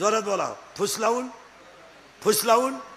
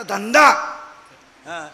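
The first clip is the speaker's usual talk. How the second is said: normal talking voice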